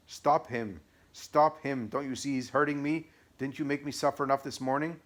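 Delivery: high, loud desperate scream; devil screaming. Acted. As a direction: howl for someone to stop him. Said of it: "The devil screamed and cried".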